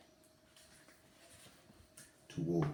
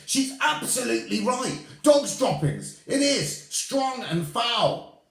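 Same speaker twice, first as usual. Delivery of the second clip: very high, loud witch cry; 9 dB louder than usual. Acted. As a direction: cry out in disgust. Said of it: "cried another voice".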